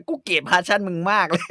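French chef turning on the host, slow and scornful. Retold or imitated. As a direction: sneer it out slowly. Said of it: "เชฟฝรั่งเศส".

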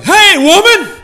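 sharp, high, very loud mock yell; rude yell at grandma. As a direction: bark it rudely like a cheeky kid. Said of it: "I didn't walk into my grandma's house and be like".

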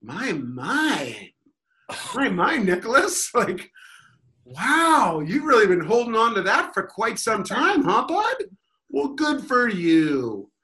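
high, mocking, patronizing coo; smug heckler needling the angry player; smug condescension. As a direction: pat him on the head with words. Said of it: "I was just like".

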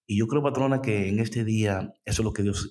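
normal talking voice

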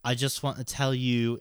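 put-on polite Londoner's British accent. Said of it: "Do it in the accent".

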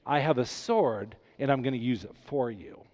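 kind, protective promise; gentle reassurance, sword for you; reassuring God voice. Retold or imitated. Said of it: "This is God saying".

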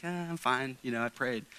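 fake cheerfulness. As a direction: pretend to be fine, lightly put on. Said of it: "plaster a smile on your face".

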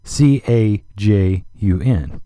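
"C A J U N" spelt out letter by letter, slowly; spelled out slowly. Shown as a demonstration. Radio host spells the word for his listeners, slowly. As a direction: spell "C A J U N" slow and clear. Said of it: "we have this term now".

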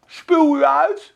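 slow, loud, disgusted spit-out; slow, loud disgusted God's voice; God's rejection. Acted. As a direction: spit the words out slowly in disgust. God rejecting the lukewarm church.

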